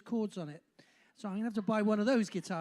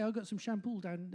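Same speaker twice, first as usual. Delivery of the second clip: Bristolian, with "shampoo" ending in L; Bristolian accent; 4 dB quieter than usual. Acted. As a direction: demonstrate a Bristol accent, L after final vowels. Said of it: "the Bristolians will say".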